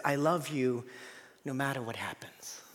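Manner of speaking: soft, low, ending in a whisper; tender whisper. Acted. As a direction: breathe it like a tender promise. Voicing God's love, hushed.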